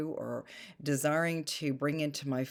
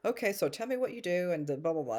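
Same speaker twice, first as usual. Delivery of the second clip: quick, higher mock-interviewer patter; mock perfunctory; 3 semitones higher, faster than usual. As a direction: rattle it off like a routine questionnaire.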